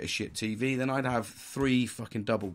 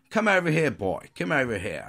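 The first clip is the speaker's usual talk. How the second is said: raised, higher call at the start; calling someone over; 3 semitones higher, 5 dB louder than usual. Acted. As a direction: holler for him to come over. Neighbour calling him over, acted.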